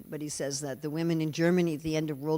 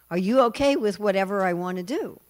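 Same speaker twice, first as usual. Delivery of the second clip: higher, lilting questions; imitated Mohini; 6 semitones higher, 6 dB louder than usual. Mohini asking the demons for free rein, high and coaxing. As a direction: play a coaxing enchantress asking permission.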